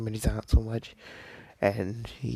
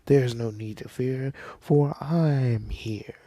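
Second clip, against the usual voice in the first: slow, booming hero proclamation; heroic announcement; 2 semitones higher, 3 dB louder, slower than usual. Retold or imitated. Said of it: "He's like".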